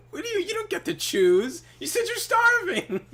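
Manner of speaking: squeaky scolding through laughter; high laughing mock scold; laughing high rant. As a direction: wheeze out the rebuke.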